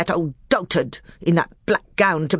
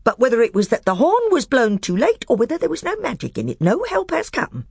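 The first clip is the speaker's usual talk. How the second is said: high, loud, heaping insults; scornful dwarf; 10 semitones higher, 4 dB louder than usual. A narrator's reading. Nickabrick mocking the magician in open anger. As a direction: jab each name at him.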